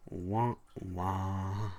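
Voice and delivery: mock cartoon wah wah; mock sad trombone after the story; sad trombone imitation. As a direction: sing it like a deflating horn. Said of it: "classic cartoon sound effect".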